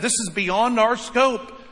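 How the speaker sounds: acted dismay, high and drawn out; imagined freak-out. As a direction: protest like an overwhelmed church, slow and emphatic. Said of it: "They could have freaked out".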